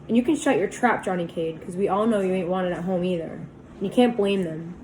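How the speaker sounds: put-on angry boy lashing out at his buddy. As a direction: lash out at a friend. Lashing out at Johnny.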